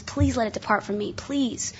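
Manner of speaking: understated retold plea; quiet, mildly pleading prayer; Paul, pleading. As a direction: softly beg for relief, lightly acted. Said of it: "Paul pleaded with the Lord".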